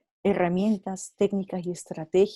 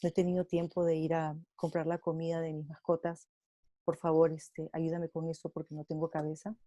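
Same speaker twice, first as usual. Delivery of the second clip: softer, tired request for help; overwhelmed friend; 7 dB quieter than usual. Retold or imitated. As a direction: ask quietly, too drained to cope. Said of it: "tú me puedes decir".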